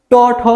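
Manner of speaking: ট, ঠ with tongue tip curled to the hard ridge; retroflex consonants. Shown as a demonstration. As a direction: demonstrate ট, ঠ, tongue tip striking behind the ridge. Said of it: "তালু থেকে একটু সামনে যে শক্ত জায়গাটুকু". (ট, ঠ জিহ্বার আগা উল্টে শক্ত তালুতে উচ্চারণ)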